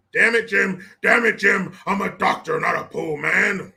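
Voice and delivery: mock-dramatic, loud at the start; hammed-up exasperated doctor, dragging the last words; exasperated doctor quote.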